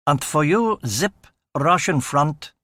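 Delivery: put-on hammy slow German accent, lightly done; mock German officer accent, drawn out; comedic German accent. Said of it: "he said in a comedic German accent".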